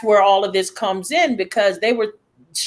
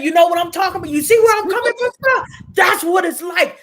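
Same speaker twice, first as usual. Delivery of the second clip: street talk; 7 semitones higher than usual. Retold or imitated. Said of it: "I have to speak their language".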